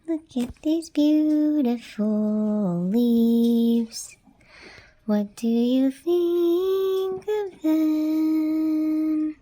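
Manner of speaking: slow, tender plant talk. Real, not acted. Gardener fondly speaking to her plants, slow and tender.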